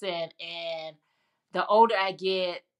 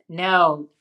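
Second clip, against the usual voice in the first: louder, emphatic retold objection; retold firm correction; 7 dB louder than usual. Friend correcting her mistaken compliment, retold firm correction. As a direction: set them straight, acting out the reply.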